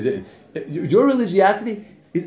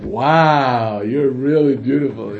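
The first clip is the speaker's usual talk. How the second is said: mock catcaller; 5 semitones lower, 4 dB louder, much slower than usual. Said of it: "you know, like".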